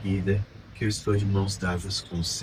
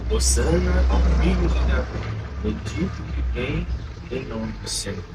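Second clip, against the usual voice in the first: loud, higher-pitched acclamation, easing at the end; grito da multidão imitado; 4 semitones higher, 5 dB louder than usual. Retold or imitated. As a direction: cry out like a crowd hailing Jesus, then settle. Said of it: "elas gritam". (grito de aclamação imitando a multidão)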